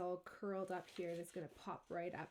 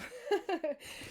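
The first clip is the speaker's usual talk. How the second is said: short laugh; 8 semitones higher, 5 dB louder than usual. Real, not acted. Laughs at the laptop in view.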